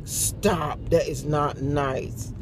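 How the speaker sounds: slow, measured telling-off, retold; gentle scolding.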